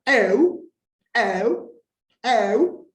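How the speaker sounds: eu sung out high and loud, pitch moving within one syllable; rising-tone diphthong demo. Shown as a demonstration. Teacher demonstrates Greek tonal accent to students, eu pitched high. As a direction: lift eu well above your talking pitch, three separate times. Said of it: "subir en la segunda sílaba".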